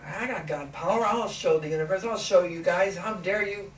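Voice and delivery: mock-furious rant; ticked off. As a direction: demand it like a wronged god. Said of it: "I was a little ticked off".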